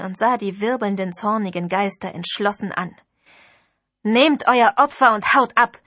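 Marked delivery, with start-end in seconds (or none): 4.0-5.8 louder, a fierce order; furious command. Acted. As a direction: throw the words at the spirits. Priestess drives off the ghosts.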